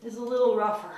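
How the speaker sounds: panting between words; out of breath. Real, not acted. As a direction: talk while catching breath. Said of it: "I'm a little out of breath".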